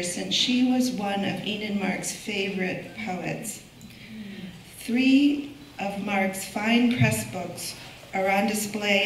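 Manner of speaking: measured, projected lectern reading; formal introduction. Real, not acted. Curator welcoming an audience to the annual lecture, formal introduction. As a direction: read out a prepared welcome speech.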